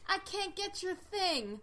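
imitating an old granny's drawl; lightly voiced old granny; granny's accent. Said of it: "use her accent".

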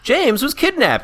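hammed-up panicked announcement; kid in distress. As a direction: imitate a cartoon boy raising the alarm. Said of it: "he's like".

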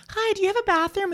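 high-pitched frantic question; frantic mom. Retold or imitated. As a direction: ask in a rushed panic. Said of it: "my mom's like".

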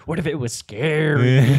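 slow, hammed-up spooky delivery. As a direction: ham up the scare, slow. Spooky scary act out.

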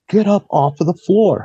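high, forceful retold command; retold barked order. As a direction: imitate a gunman ordering someone up. Gunman's order, acted.

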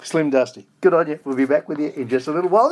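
hearty radio host hollering the song's greeting; hammed-up radio greeting. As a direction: belt the catchphrase out like a jingle. Host hams up song catchphrase.

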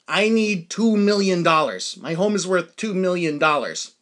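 slow, emphatic "two million dollars"; firm insistence. Retold or imitated. Insists on price, refusing to budge.

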